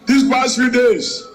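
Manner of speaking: hoarse, worn-out speaking voice. Real, not acted. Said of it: "Sorry, I lost my voice".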